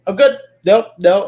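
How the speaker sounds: high, loud, hurried protest; mock frantic denial. Groggy fighter after being choked out, mock frantic protest. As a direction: insist you're fine, half panicking.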